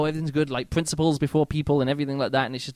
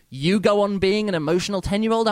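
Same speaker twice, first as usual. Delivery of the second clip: put-on higher, disbelieving repeat of "You go on being an emotional ten-year-old."; incredulous requote; 5 semitones higher than usual. Reviewer repeating the character's line in disbelief, incredulous. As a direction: say it like you cannot believe she said it. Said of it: "and then she says".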